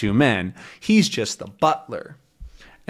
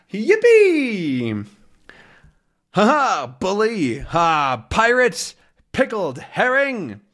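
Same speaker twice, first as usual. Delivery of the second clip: put-on drunken whooping; 8 semitones higher, slower than usual. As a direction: whoop like a drunk sea captain. Drunk Haddock whoops, runs in.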